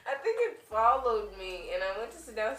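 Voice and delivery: talking through giggles; laughing. Real, not acted. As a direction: say it while laughing. Laughing while telling fart story.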